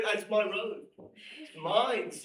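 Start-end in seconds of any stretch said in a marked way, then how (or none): 1.4-2.1 louder insistent it's mine; firm possessive assertion; emphatic claim. Real, not acted. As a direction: plant your flag on the word.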